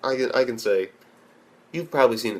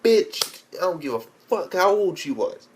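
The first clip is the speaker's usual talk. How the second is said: tough lecture; 4 semitones higher than usual. Pretend. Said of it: "I would have been like".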